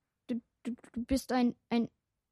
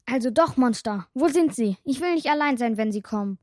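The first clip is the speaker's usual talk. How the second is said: alarmed, she begs not to be left alone; frightened outburst; 3 semitones higher, 4 dB louder, faster than usual. Acted. Scared girl asking where the monsters are, loud and panicky.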